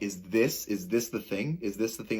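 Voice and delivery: softly questioning, retold inner thought; hesitant, repeated self-questioning. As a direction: ask yourself quietly, with rising ends. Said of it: "I'm, like, questioning".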